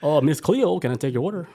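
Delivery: mock caller.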